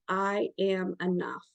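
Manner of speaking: slow, soft affirmation; calm, quiet self-affirmation; slow mantra. Shown as a demonstration. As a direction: say it slowly, meaning it. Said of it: "I want you to say".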